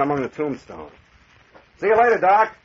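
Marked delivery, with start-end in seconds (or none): 1.8-2.5 raised voice, called back over the shoulder; calling out. Acted. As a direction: call it out to the doctor across the yard. Calling back while walking off.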